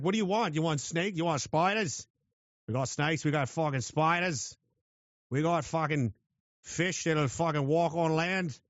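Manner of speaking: put-on a rough go at an Australian accent; attempted Australian accent. Australia boasting about its deadly creatures, in a shaky Australian accent. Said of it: "I can't do an Australian".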